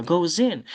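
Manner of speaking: "goes in" said as one word, go-zin; z liaison. Shown as a demonstration. Teacher repeating the sound, z liaison. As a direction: voice the s of "goes in" straight into the vowel. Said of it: "Les sons comme ça".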